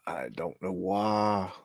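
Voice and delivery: whispered. Real, not acted. Creeped out by moving gif.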